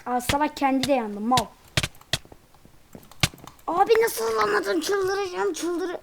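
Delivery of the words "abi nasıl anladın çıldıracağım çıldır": high disbelief. Real, not acted. Shocked opponent read his move.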